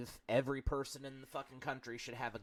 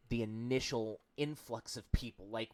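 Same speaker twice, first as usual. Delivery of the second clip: ordinary talk, nothing marked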